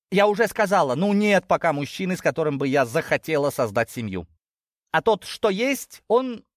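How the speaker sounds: high, emphatic protest; insist, with the pitch well up; exasperated daughter. Acted. Daughter refusing to start a family, exasperated.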